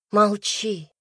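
ordinary delivery

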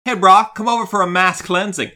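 lightly voiced surfer bro invite; casual bro voice. Retrying the line to sound friendly, a light bro voice. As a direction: toss it off like a chummy bro. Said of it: "Let me try it again".

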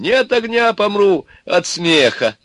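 high, helpless wail; moaning with laughter. A narrator's reading. Ivan laughs inside the oven, moaning. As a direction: wail as if mirth is killing you. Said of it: "стонал Иван".

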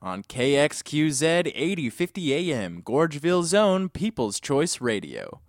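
upbeat radio host intro. Acted. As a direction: announce it like a DJ.

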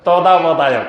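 তদাবধায়ক with a single d, imitating a Chinese newsreader; mock the foreign reader's তদাবধায়ক; তত্ত্বাবধায়ক flattened to তদাবধায়ক; Chinese mispronunciation. Shown as a demonstration. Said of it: "কি সরকার?".

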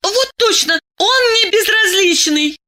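put-on high young woman; high girlish voice; eager girl. A narrator's reading. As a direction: agree brightly up high. Masha agrees eagerly.

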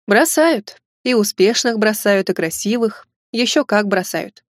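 slow, rueful and a little sad; joyless smile. Acted. Litvinov telling Lena men get dumped too, mildly rueful. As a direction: let a bitter smile color the words. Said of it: "Не слишком весело улыбнулся Литвинов".

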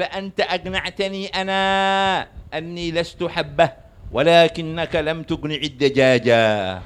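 slow, drawn-out complaint; mock protest. Patient objects to the doctor about the chicken, drawn-out protest. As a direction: drag out the objection like a hammed-up plea.

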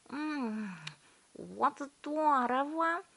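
high, slow delighted hum; mumbling through chewing. A narrator's reading. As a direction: mumble it with mouth full. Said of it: "промычала Виолетта".

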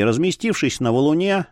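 plain reading voice

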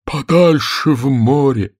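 high, drawn-out call; animated storybook creature; excited turtle. A narrator's reading. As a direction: send the words far out, slowly. Mock Turtle building excitement.

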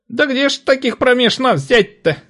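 high, loud, delighted trader's voice; a raucous old trader laughing it off; cackling market woman. A narrator's reading. Market woman delighted to see the boy, high and loud. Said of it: "удивляется она".

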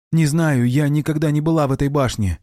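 put-on high, anxious girl's reply; nervous answer. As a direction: blurt it out nervously. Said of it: "нервно откликнулась девушка".

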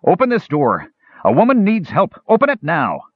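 half-elf shouting at the door in fury; furious shout. Acted. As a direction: shout it back with sudden fury. Tanis shouting at closed door.

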